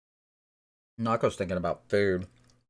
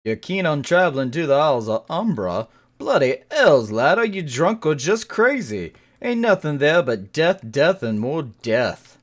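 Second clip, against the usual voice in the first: put-on louder rough old sea dog, scoffing; gruff sailor; 6 semitones higher, 10 dB louder than usual. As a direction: bark it like a salty sailor warning off a fool. Voices sailor NPC in game.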